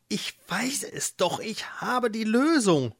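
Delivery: high mole voice, slowing at the end; insistent mole. Acted. Mole claims a solution, insistent high voice. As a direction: insist on being heard. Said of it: "der Maulwurf ließ nicht locker".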